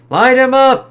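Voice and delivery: commanding shout. Acted. Commander ordering troops to shoot Hulk, shouting. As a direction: yell the order to open fire.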